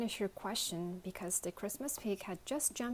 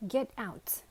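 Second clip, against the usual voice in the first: cried out; 5 semitones higher than usual. Acted. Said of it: "cried the lunchbox".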